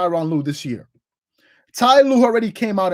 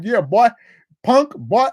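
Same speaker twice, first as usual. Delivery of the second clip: imitated Southern US accent; slower than usual. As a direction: lightly put on a Southern twang. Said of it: "Kwame Brown got a Southern accent".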